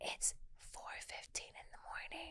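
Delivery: soft, hushed whisper. Telling someone how the voice assistant answered a whispered question, imitating Alexa whispering. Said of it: "she whispers back at me".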